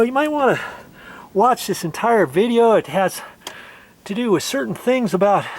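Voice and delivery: cheerful pitch to keep them watching; upbeat. Real, not acted. Upbeat viewer appeal.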